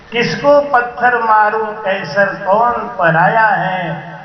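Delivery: slow, drawn-out verse delivery; poetic recitation. Real, not acted. Preacher sharing a verse on oneness, slowly recited. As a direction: recite the couplet, lingering on the words.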